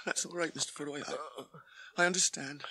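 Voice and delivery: whisper. Acted. Sam softly consoles Frodo.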